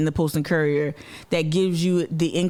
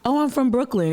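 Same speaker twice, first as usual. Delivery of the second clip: higher-pitched mock bragging; mocking boaster; 4 semitones higher than usual. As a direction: put on a showy boast, mimicking hometown posers. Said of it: "people who like".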